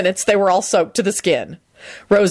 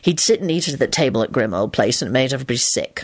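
low-pitched musing; reminiscent; 6 semitones lower than usual. A narrator's reading. Man recalling old friends at dinner, reminiscent. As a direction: reminisce in a lower, mild voice. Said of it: "Lupin said reminiscently".

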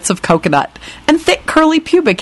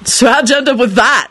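higher, curious youngster; interested; 6 semitones higher than usual. Acted. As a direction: ask with lively interest. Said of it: "George said with interest".

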